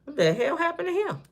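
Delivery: high, soft mock-innocent whimper; playing innocent. Telling the police she did nothing, high mock-innocent whimper. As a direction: feign innocence, almost crying. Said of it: "Police come be like".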